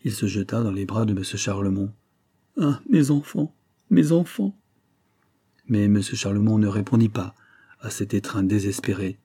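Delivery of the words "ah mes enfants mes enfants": higher-pitched, grief-stricken wail; anguished outcry. A narrator's reading. Betrayed husband falling into his friend's arms, sobbing outcry. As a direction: cry out as if bursting into sobs. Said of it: "éclatant en sanglots".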